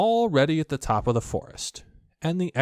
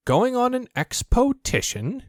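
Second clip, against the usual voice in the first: high, slow and eager question; 13 semitones higher than usual. A narrator's reading. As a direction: Pooh lighting up at the idea. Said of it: "said Pooh eagerly".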